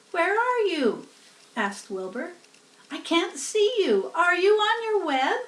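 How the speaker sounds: put-on a young pig looking for his friend; worried piglet. A narrator's reading. Wilbur searching in dark.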